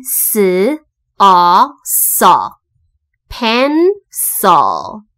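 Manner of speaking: slow S, O, so, then pencil in two syllables; sounding out. Shown as a demonstration. Teacher showing the final sound, sounding out pencil. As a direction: build pencil piece by piece from S and O. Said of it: "I L一起念成O这个音".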